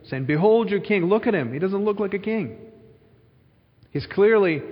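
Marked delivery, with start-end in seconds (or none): 0.2-2.6 higher-pitched jeering proclamation; mocking Pilate. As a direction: ridicule the would-be king. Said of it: "a mocking statement".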